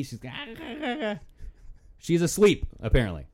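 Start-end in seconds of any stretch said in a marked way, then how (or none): 0.2-1.2 high, soft giddy giggling noises; imitated giddy giggle. Describing sleepwalking woman in video, imitated giddy giggle. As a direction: mimic someone giggling with glee, high and light. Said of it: "all giddy".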